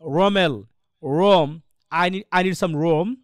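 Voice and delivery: "Rome" with a rounded untrilled r; slow English sentence leaning on the r of Rome; English R demo. Shown as a demonstration. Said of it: "এরকম একটা উচ্চারণ হয়".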